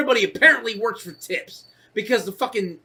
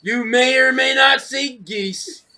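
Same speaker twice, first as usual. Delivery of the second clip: mock guide; 4 dB louder, slower than usual. Mocking guide announcement.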